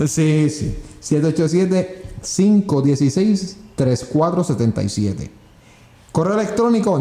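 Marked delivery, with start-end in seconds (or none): 1.0-5.3 reading digits one by one. Shown as a demonstration. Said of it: "estoy con la lengua".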